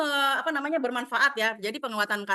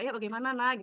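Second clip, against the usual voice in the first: gentle coaxing; 4 dB quieter than usual. Retold or imitated. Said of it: "membujuk dia".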